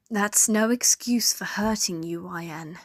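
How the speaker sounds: soft whisper. Acted. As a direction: whisper it gently in her ear. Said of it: "the soft tone in her voice".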